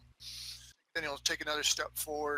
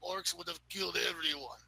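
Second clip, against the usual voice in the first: deadpan; 3 semitones higher than usual. Pretend. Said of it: "look at her real deadpan".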